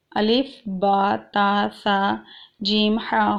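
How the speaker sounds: الف با تا سا جیم ہا recited slowly; name each Arabic letter, drawn out; slow Arabic alphabet recitation. Shown as a demonstration. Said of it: "یہ Arabic کے ورڈز ہیں".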